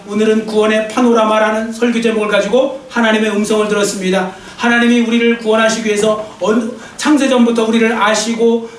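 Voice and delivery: earnest pastor's prayer, steady and devout; fervent Korean church prayer; closing prayer. Acted. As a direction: pray it over the congregation, sincerely.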